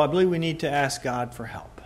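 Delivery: hushed, breathy whisper. Acted. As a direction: lean in and whisper it. Urging prayer, whispered.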